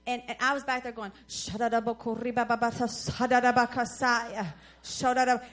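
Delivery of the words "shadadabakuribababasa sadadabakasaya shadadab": rapid babbling tongues; panicked prayer in tongues; speaking in tongues. Retold or imitated. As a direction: rattle off frantic tongues. Praying in tongues in speeding car.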